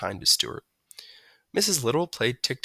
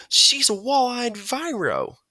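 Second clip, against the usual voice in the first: put-on slow, high, know-it-all boy; scientific tone; 13 semitones higher, 3 dB louder, slower than usual. A narrator's reading. George naming the bird, slow and know-it-all. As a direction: lay it out like an expert. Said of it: "said George scientifically".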